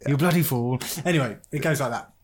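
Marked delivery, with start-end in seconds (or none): 0.1-0.8 lightly voiced duck, accent slipping; a hint of Indian accent in a duck voice; talking duck impression. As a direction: imitate a duck attempting Australian English. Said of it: "a little bit of an Indian accent".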